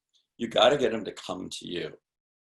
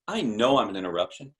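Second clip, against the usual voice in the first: knowing tone. Shown as a demonstration. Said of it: "If you say it in that tone".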